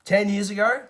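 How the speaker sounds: a loud, half-hammed "whoa, whoa" of disbelief; mock disbelief. Reviewer hearing about Sifo-Dyas, loud mock disbelief. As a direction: play up the double take, rising at the end. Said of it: "And I was like".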